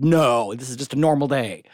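punchy opening, mock exasperation; sarcastic retort. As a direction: snap back with obvious sarcasm, acted. Sarcastic retort while retelling her upset.

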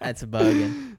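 high, hammed-up bogan voice; mock bogan voice. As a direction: squeak it like a bogan. Mocking bogan voice.

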